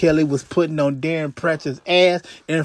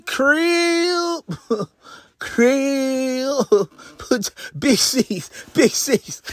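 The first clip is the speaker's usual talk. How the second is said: laughing; 6 semitones higher, much slower than usual. Real, not acted. Joking about gang slang.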